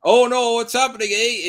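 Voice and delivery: high hammed-up Canadian worry; mock Canadian. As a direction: ham up a Canadian eh. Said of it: "Do you say eh in your thoughts".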